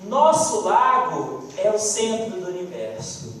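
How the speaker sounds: a hint of a truculent ruler's proclamation; truculent king. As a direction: dismiss the small fish with a king's loud authority. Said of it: "truculenta daqueles companheiros, o rei resolveu".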